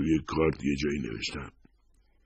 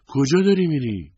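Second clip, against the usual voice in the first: high, loud startled question; taken aback, voice jumping high; astonished question; 11 semitones higher, 7 dB louder than usual. A narrator's reading. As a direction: ask it in stunned disbelief, pitch leaping up. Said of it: "حیرت زده پرسید".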